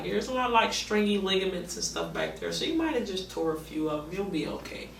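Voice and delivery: lightly voicing the doctor's offhand reassurance; imitating the doctor. Retelling the doctor brushing off her knee injury, mild mock voice. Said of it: "he was like".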